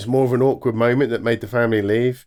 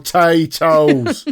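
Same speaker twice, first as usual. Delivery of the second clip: West Country potatoes; 5 semitones higher, 5 dB louder, much slower than usual. Retold or imitated. Echoing the accent joke.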